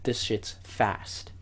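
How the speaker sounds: soft, stressed whisper. Retold or imitated. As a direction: hush it out in panic. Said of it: "I'm stressing out".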